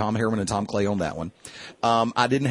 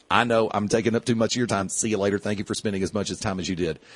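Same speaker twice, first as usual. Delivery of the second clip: mildly cordial goodbye; 2 semitones lower than usual. Retold or imitated. Host retelling an announcer excusing himself from fans, mildly cordial. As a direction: imitate a courteous sign-off, understated. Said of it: "He was always very cordial".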